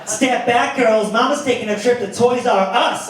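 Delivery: lightly voiced girl claiming her catch; sassy girl. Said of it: "girls walking into a bar".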